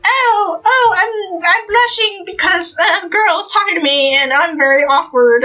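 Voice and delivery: put-on high-pitched flustered boy; hammed-up bashful panic; Deku. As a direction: squeak it out, awkward and flustered. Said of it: "Deku is just like".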